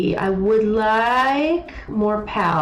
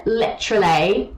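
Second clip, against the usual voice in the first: mocking Literally again; Literally dragged like Owl; imitating Owl. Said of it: "That's how Owl talks".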